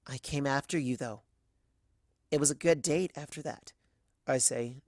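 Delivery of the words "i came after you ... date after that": gentle. Acted. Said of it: "gently as I can".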